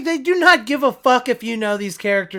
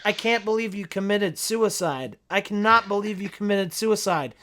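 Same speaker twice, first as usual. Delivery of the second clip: emotionless line reading. Retold or imitated. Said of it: "the way he's saying it is so just like".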